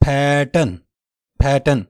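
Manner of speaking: American پیٹرن, stressed first syllable; American pronunciation. Shown as a demonstration. Teacher modelling American English: پیٹرن. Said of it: "امریکہ والے پڑھیں گے".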